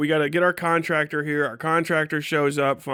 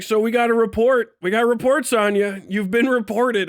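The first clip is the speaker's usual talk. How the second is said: FBI agent voice; 7 semitones higher, 4 dB louder than usual. Retold or imitated. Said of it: "And he's like".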